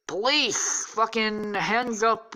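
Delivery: high, commanding retold raid order; mock police shout. Police raiding his room, mock shouted order.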